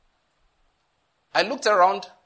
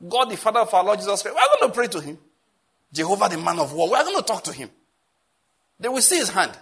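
defiant declaration of faith, a little raised; bold, confident prayer; 3 semitones higher, 4 dB louder than usual. Acted. Preacher acts out believers praying before battle, bold and confident. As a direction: pray out boldly, pitched up on the vows. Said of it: "See that attitude?".

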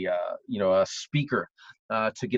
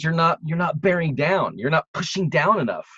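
higher-pitched gorgeous little woman's voice; tiny Australian voice; 5 semitones higher than usual. Retold or imitated. Voice coach correcting her student over the phone, in a tiny Australian voice. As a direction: imitate a petite, higher Australian voice. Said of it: "that gorgeous little voice".

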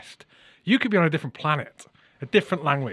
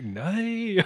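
Northern Irish nay; 8 semitones higher than usual. Retold or imitated. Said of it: "I think".

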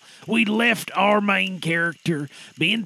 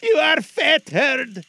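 trembling; 10 semitones higher, 7 dB louder, slower than usual. Acted. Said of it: "said Scrooge, trembling".

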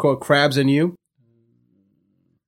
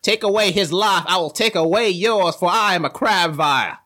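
vampire threat; 5 semitones higher than usual. Acted.

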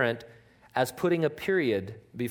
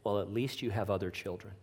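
mock cliche; 5 semitones lower, 9 dB quieter than usual. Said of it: "you look at the person and say".

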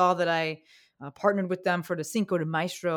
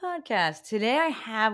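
higher, louder bright welcome; upbeat podcast host; 7 semitones higher, 3 dB louder than usual. Acted. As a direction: greet the audience with a big lift. Host opens episode energetically.

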